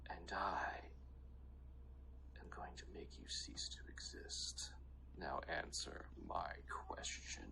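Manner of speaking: whispered dual-layered draconic threat; half dragon voice. Acted. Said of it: "her Draconic accent comes out".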